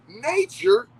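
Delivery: high, loud on nature; excited punch. Real, not acted. Comic building to the punchline, high loud emphasis. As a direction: hit nature hard and high. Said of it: "punchline emphasis".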